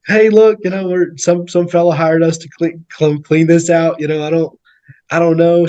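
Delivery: high-pitched plea of ignorance; playing innocent. Retelling his excuse to the angry lady, high mock innocence.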